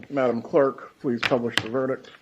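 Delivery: ordinary talk, nothing marked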